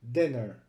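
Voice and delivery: "dinner" with a short "i" as in "din"; short vowels. Shown as a demonstration. Teacher shows students how double consonants shorten "dinner". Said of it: "this is pronounced".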